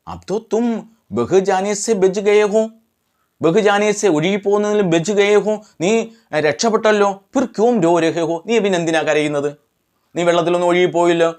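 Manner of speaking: questioning brother, voice pitched a little up; lightly voiced brother. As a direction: lightly act out a brother asking the crying child. Voices the brother questioning the crying boy. (ചേട്ടന്റെ ചോദ്യം, ചെറുതായി അഭിനയിച്ച്)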